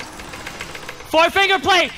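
slow, high drawn-out hype call; hype announcer. Pretend. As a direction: draw it out like a sportscaster. Repeated as hype.

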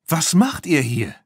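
put-on mother calls to the children in surprise; calling out. A narrator's reading. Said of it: "rief Stéphanie".

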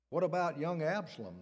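the king presses for news of his son; anxious demand. A narrator's reading. Anxious king to the messenger, urgent demand. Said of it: "the king demanded".

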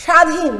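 "স্বাধীন" with a strongly stressed opening "sh"; forceful first sound. Shown as a demonstration. Teacher demonstrating the rule to pupils, "স্বাধীন" stressed at the start. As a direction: press on the first syllable of "স্বাধীন". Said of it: "অনেক জোর দিয়ে উচ্চারণ করি".

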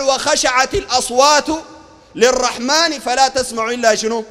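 slow verse ending in a prompt; recite, then quiz the listeners; measured scripture delivery; Quran recitation. Acted.

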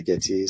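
Gitee said as "git-tee"; own pronunciation of Gitee. Shown as a demonstration. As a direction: say Gitee in two syllables, with a clear tee. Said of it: "how to pronounce it".

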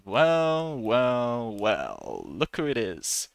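a cop who has caught the same crook again; sarcastic police officer. Shown as a demonstration. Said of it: "And he goes".

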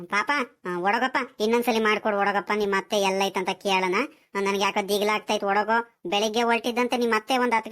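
low, pleading persuasion; gentle coaxing. Acted. Worried grandparent begs grandson to phone his aunt, gently coaxing. Grandparent coaxes the sulking boy.

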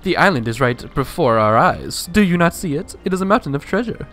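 pompous vain nobleman, lightly voiced; Flavio voice. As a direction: puff up, boastful and proud. Voicing Flavio in game.

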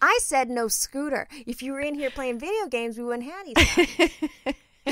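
slow, emphatic mock scolding; stern scolding. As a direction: lay down the law. Scolding child about scooter.

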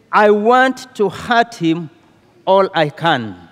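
wife telling the counselor she wants to hurt her husband, firmly determined; firm declaration. Retold or imitated. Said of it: "She declared firmly".

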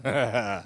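low staccato chuckle; short theatrical Count laugh; vampire chuckle. Acted. Vampire host between visitors, low staccato chuckle.

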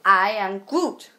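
slowly drawn I am Groot; slow Groot line. Retold or imitated. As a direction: say it slow like the tree creature. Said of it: "Now rephrase it".

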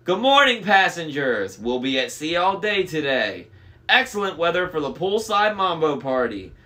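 high, loud, chirpy intercom announcer; bubbly cruise announcer; way too happy. A narrator's reading. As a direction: announce it with over-the-top cheer. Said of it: "sounded way too happy".

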